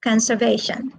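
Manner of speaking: "Conservation" stressed on VA; stress on third syllable. Shown as a demonstration. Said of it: "third syllable".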